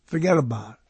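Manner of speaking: forget about it, New York style; a light New York mobster accent. Shown as a demonstration. Talking to listeners about mobster talk, New York accent. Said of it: "New York accent to it".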